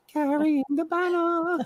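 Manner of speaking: high, slow, hammed-up New York "banner" as "banna"; mock Broadway New York accent; bad New York accent. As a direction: belt it like a Newsies newsboy with a thick New York accent. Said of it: "Did he really say that in a bad New York accent?".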